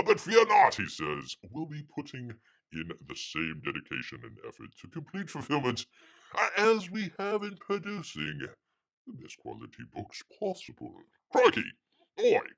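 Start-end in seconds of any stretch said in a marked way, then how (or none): 0.0-0.8 hammed-up, badly faked Australian accent; comic mock-Australian reading; terrible Australian accent. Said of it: "Bear's very terrible Australian accent". 1.5-12.5 high-pitched, badly faked Australian; comic mock-Australian accent; terrible Australian accent. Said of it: "Bear's very terrible Australian accent".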